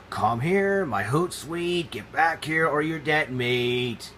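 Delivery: a lightly voiced menacing leopard; growl-tease your prey, lightly. Leopard chasing the impala, lightly menacing. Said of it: "The leopard began to sing".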